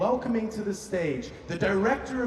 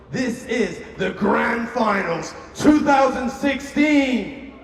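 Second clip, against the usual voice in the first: announcer shout; 3 semitones higher than usual. Real, not acted. Host announces the grand finals.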